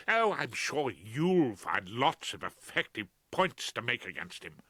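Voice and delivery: drip it with contempt; bitter sarcasm. Acted. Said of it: "her flow of denunciation".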